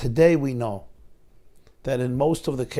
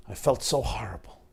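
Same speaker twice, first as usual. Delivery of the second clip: whisper; 3 semitones lower, 3 dB quieter than usual. Real, not acted. Confessing his pain to listeners.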